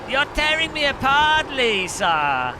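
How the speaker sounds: overwrought movie-star anguish; hammed-up wail at Lisa; Tommy Wiseau impression. Quoting The Room movie line.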